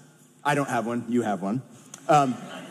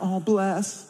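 gushing cinema audience; 3 semitones higher than usual. Acted. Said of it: "everyone in the cinema is like".

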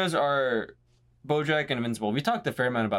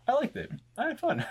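quoting Walter White; 12 semitones higher than usual. Retold or imitated. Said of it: "I love it when he's finally just like".

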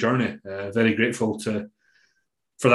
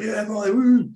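a higher, light retold whoop; mock cheer; 10 semitones higher, slower than usual. Coach cheering from the crowd, half-performed whoop. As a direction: cheer her name. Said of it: "cheering and fucking like".

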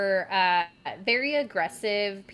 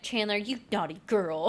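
mock scolding, lightly teasing; making fun. Host teasing her friend as an example, mildly mocking. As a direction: pretend to poke fun at a friend. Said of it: "making fun of sense".

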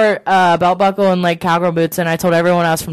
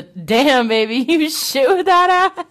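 cheeky pickup line; 7 semitones higher, slower than usual. Pretend. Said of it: "I would probably hit him with the".

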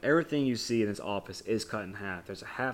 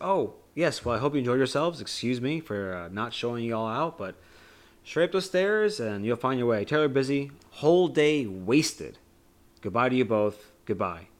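Wonka's curt goodbye; 2 semitones higher, 4 dB louder than usual. Retold or imitated. Retelling the film to a friend, lightly voiced dismissive Wonka. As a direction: brush them off politely but briskly.

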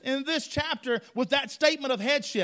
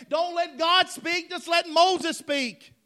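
mock plea; 5 semitones higher, 4 dB louder, slower than usual. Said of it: "This was them then".

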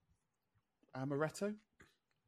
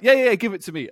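put-on eager kid; 6 semitones higher, 12 dB louder, faster than usual. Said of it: "so I'm like".

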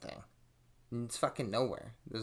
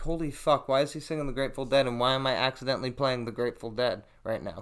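shocked; 6 dB louder than usual. Retold or imitated. Inner alarm at his singing.

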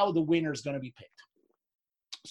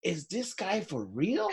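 incredulous laughing aside; 6 dB quieter, slower than usual. Retold or imitated. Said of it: "I'm thinking".

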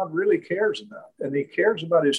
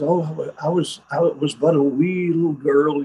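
light imitation of a Hebridean Scottish accent; Scottish Hebrides accent. Old Hebrides lady recalling childhood in a light Scottish accent. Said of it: "in that beautiful Scottish accent".

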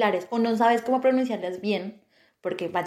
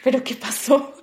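a laughing, louder "what happened?"; retold surprise; 4 semitones higher, 5 dB louder than usual. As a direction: replay her own startled reaction with a laugh. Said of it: "y yo".

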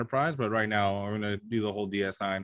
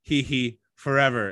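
slow mock-villain read with a giggle; lightly hammed evil laugh, slowed down; slower than usual. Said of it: "in an evil voice".

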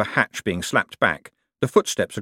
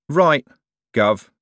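thug voice; 6 semitones higher, 5 dB louder than usual. A narrator's reading. Thug echoes mocking.

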